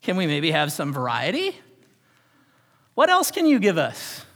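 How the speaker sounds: high, loud whiny complaint to God; grumbling Israelite complaint. Acted. Israelites complaining to God about the manna, high and loud. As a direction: push it up high and loud like a spoiled, demanding child.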